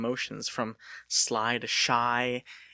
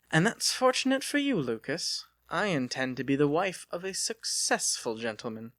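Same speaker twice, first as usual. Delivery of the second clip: put-on lightly higher, genteel young lady; a refined young woman teasing her suitor; Delia's voice; 4 semitones higher than usual. Delia telling Lucas about her dolls, lightly higher voice.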